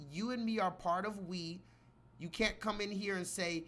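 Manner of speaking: ordinary talk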